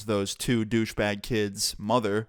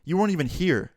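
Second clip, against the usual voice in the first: higher-pitched affronted mom; lightly acted offense, pitch lifted; mildly indignant; 5 semitones higher than usual. Wilson's mom to the other mother, mildly indignant. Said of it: "did not like that".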